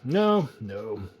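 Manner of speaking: measured audiobook reading voice; story narration. Acted. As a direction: read it like a classic tale.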